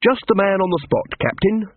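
brightly pitched, chipper greeting; cheerful. A narrator's reading. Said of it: "said Carrot cheerfully".

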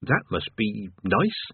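slow, unsure politeness; uncertain. Acted. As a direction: say it doubtfully, slowly. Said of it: "said Rincewind uncertainly".

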